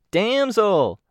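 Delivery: "Damsel" called high with the "Dam" drawn out long; stretched first syllable. A narrator's reading. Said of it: "drawing out the first sound".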